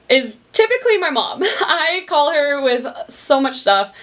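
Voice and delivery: laughing through the words. Real, not acted. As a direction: chuckle while admitting it, slowing down. Laughing about calling her mom.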